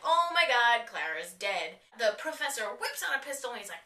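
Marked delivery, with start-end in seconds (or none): 0.0-1.8 loud burst of "oh my God" dropping to dismay; shocked gasp. Retold or imitated. Fan reacting to Clara's apparent death, shocked outburst. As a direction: blurt it out in shock, then deflate.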